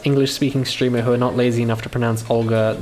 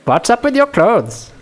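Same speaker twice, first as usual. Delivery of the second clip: put-on Indian accent; 10 semitones higher, 5 dB louder, slower than usual. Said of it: "I can't do Russian names in an Indian accent".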